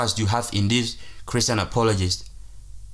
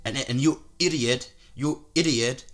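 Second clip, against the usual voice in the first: mock Christian Prince voice; 4 dB quieter than usual. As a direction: drag it out like a sneering debater. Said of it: "they don't talk like this guy talks".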